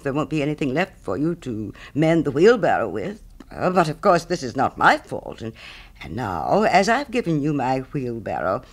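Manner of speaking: lightly voiced pompous miller with big pitch swings; emphatic, swooping miller's speech, lightly characterised; self-satisfied miller. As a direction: play a miller grandly praising his own generosity. Miller in the story.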